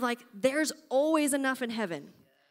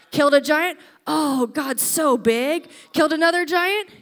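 excited; 3 semitones higher, 6 dB louder than usual. Acted. Excited rally shouts.

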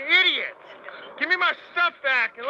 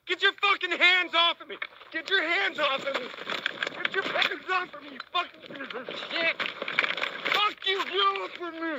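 panicked struggle. Real, not acted. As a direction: fight them off in panic. Officers grabbing him.

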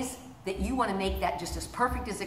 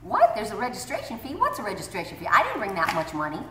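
surprised parent. Retold or imitated. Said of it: "there be surprises".

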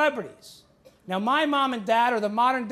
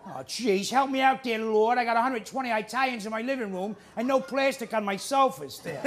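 lightly voiced drunk dad groaning to the Lord; a touch of a put-upon boozy father; mild mock lament from a grumbling dad; Archie Bunker. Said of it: "drunk Archie Bunker".

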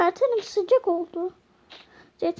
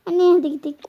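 put-on crying child; 4 dB louder, much faster than usual. Child doll wants to leave.

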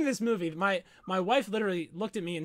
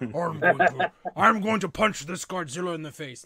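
Bane voice; 4 dB louder, slower than usual. Retold or imitated. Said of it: "Everybody sounded like Bane".

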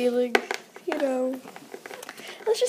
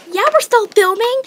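loud; 10 semitones higher, 10 dB louder than usual. Real, not acted. Goop stuck in mouth, filming.

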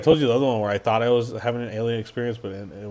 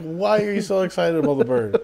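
incredulous; 8 semitones higher than usual. Real, not acted. Laughing objection to the joke.

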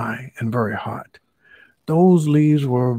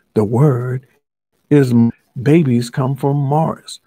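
eager guess; 7 dB louder than usual. Acted. Lion eagerly guesses answer.

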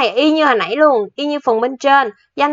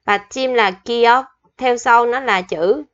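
slow dictation; slower than usual. Shown as a demonstration. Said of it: "Mình sẽ ghi chỗ này nha".

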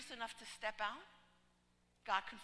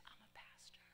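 breathy voiceless whisper back; 20 dB quieter than usual. Retold or imitated. Pastor whispers to the girl who wants to preach, whispering. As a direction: whisper it like a secret. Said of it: "And I whispered back to her".

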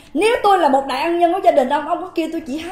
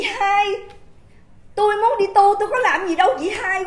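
higher mock pleading voice, with a touch of whine; lightly put-on wheedling voice, higher; mocking his tone; 5 semitones higher than usual. Telling the viewers how he supposedly called her, mocking and higher. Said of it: "ổng kêu chị".

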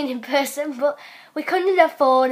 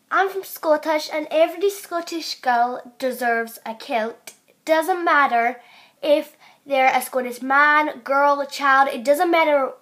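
put-on shaky Scottish accent slipping towards American; amateur put-on Scots; attempted Scottish accent. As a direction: try Scottish and drift into American. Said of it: "Wow, I went into American".

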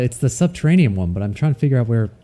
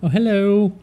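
high startled greeting, then a laugh; laughing off fear; 9 semitones higher, 4 dB louder, slower than usual. Real, not acted. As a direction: greet the threat with a nervous laugh. Monster appears, laughs after.

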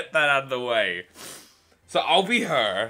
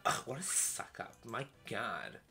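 muttered; 4 semitones lower, 15 dB quieter than usual. Acted. Muttered disgust.

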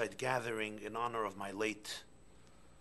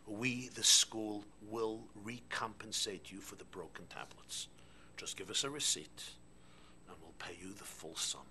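soothing principal; 2 semitones lower than usual. Acted. Principal placates the parent.

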